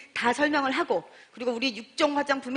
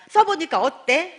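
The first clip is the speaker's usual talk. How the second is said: eager question; 4 semitones higher, 7 dB louder, slower than usual. Retold or imitated. Eager follow-up call.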